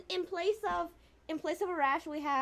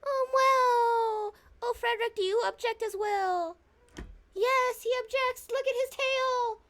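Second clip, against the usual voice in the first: pet-talk voice; 9 semitones higher, 3 dB louder than usual. Real, not acted. Owner asking the cat if he objects, high pet voice. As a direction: coo high, stretching the last words.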